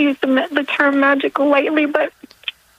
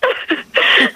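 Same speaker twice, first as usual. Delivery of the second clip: teary laugh. Real, not acted.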